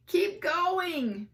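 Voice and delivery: put-on high, loud cheer of a crowd of kids; kids yelling. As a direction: shout them on. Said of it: "the other kids yelled".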